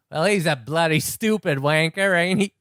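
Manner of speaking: Australian tour guide sneering, bad Aussie accent; mock Australian accent. Tour guide insulting the Pope, in a weak Australian accent. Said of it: "with my great Australian accent".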